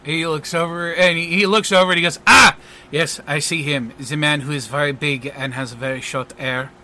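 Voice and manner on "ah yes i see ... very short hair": a hint of French entertainer; lightly voiced French magician. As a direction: recall someone as a French showman would. French magician describes the man.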